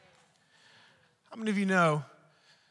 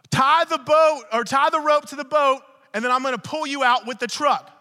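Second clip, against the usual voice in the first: higher, louder call across the water; mock yell; 6 semitones higher, 7 dB louder than usual. Grandpa yelling to grandson across pond, mock yell. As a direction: lightly yell instructions from the bank.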